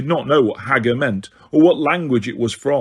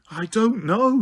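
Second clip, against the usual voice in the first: higher frightened squeal; squealed, terrified; 7 semitones higher, slower than usual. A narrator's reading. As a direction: squeal it in terror. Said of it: "squealed Hermione, terrified".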